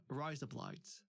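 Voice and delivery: "Rise up lights" said lightly in the accent; a first light try at "Rise up lights"; accent demo. Shown as a demonstration. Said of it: "they were trying to teach me".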